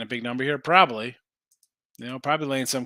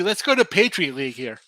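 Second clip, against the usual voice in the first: talking through a yawn; 3 semitones higher, 6 dB louder than usual. Real, not acted. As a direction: say it mid-yawn. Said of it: "Excuse me for yawning".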